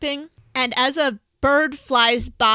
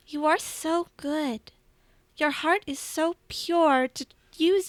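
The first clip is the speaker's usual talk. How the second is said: lightly voiced tender goddess; 2 semitones higher than usual. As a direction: hold his face and bless him gently. Bast praises Cohen.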